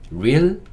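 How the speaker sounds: "real" drawn out with a rising pitch; syllable-by-syllable demo. Shown as a demonstration. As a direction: say "real" as a slow first syllable, lifting at the end. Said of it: "요렇게". (음절을 끊어 읽는 발음 시범)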